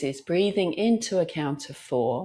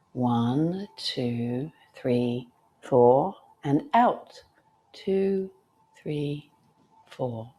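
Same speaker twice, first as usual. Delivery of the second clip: breath count; 2 semitones lower, much slower than usual. Shown as a demonstration.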